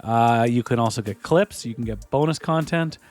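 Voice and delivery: brisk host plug for the show; podcast ad read. Acted. Host to listeners, brisk ad read. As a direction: sell the Patreon like a host. Reads the show's sponsor plug.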